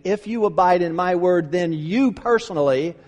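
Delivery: single out YOU as if pointing at one person; emphatic YOU. Retold or imitated. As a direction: stress YOU in "then you personally", aimed at the listener. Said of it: "is emphatic".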